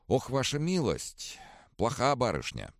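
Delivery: lightly voiced grieving healer; old doctor voice. A narrator's reading. (голос старого лекаря)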